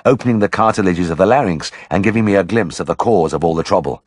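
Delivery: ordinary delivery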